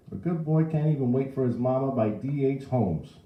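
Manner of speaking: put-on high, loud old man; outraged old bystander; protesting old man. A narrator's reading. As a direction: complain to the whole crowd. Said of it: "It was the old man again".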